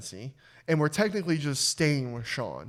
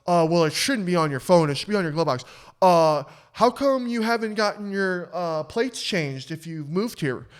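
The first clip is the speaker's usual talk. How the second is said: snarky cop; 3 semitones higher, 4 dB louder than usual. Retold or imitated. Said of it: "again, he goes".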